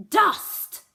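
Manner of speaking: high, piercing fairy screech. Acted. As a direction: shriek the word out. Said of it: "Fran screeched".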